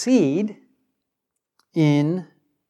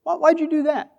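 light, innocent asking, raised high; a mild, innocent why; innocent-sounding question; 11 semitones higher, faster than usual. Shown as a demonstration. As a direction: ask it gently and innocently, pitched high. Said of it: "a very innocent sounding question".

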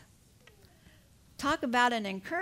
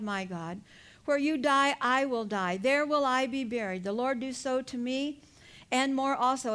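scripture reading. Acted. Reading Ruth's vow from scripture.

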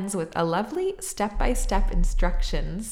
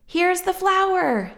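put-on high, slow, loud child's call; excited shout; 12 semitones higher, 6 dB louder, slower than usual. A narrator's reading. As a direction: call out proudly with the flour. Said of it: "shouted Jack".

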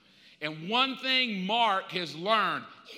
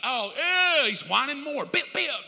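mocking, rising taunt; life taunting; 4 semitones higher, 5 dB louder than usual. Life taunting the whining believer, mocking and rising. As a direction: taunt the whiner, getting higher. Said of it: "Life's like".

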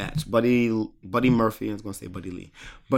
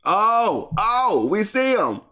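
high-pitched mock-amazed exclamations; mock excitement; 10 semitones higher, slower than usual. Co-host reacting to the wrestler's mask coming off, mock excitement. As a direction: exclaim high, as if spotting someone.

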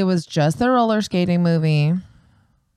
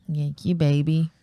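ordinary talk

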